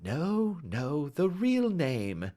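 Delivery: slow, sweet gentle insistence; sweetly. Acted. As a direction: coax it out sweetly. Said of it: "said Holmes sweetly".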